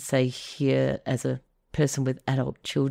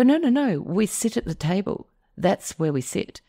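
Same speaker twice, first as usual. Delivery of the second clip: insistent; 5 semitones higher than usual. Retold or imitated. Adult kids insisting on table.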